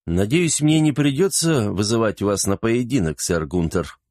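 muffled hollow voice under helmet; echoing voice inside helmet. Acted. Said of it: "Голос из-под шлема звучал гулко".

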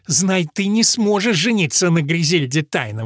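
громкое восклицание женским голосом; бросить с вызовом; воскликнула. A narrator's reading. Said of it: "воскликнула Элис". (Элис восклицает, обличая Мэрфина)

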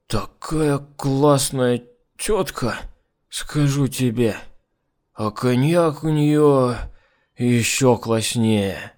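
put-on slow drunk muttering; drunk rambling. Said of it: "Пробормотав последнюю фразу".

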